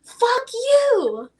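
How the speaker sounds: high, loud curse at nobody; crazy lady yelling. Retold or imitated. Retelling the lady cursing at no one, high yell. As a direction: shout it at thin air like she's unhinged. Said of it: "she's like".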